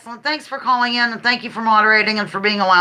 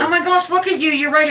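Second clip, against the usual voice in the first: excited squeal; 7 semitones higher than usual. Real, not acted. Delighted at husband's look.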